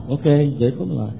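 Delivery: quick compliant echo; writing it down. Retold or imitated. Newcomer taking down sponsor's dictation, echoing quickly. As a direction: repeat it rapidly as you jot it. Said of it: "you write and I'll dictate".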